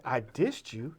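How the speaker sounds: imitated matter-of-fact admission; understated, casual statement of fact. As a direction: own up to it with no fuss. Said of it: "so matter-of-factly".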